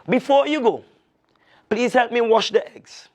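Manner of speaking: high sly voice of the alligator greeting his guest. Acted. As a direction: purr the greeting like a crafty alligator. Alligator speaks slyly.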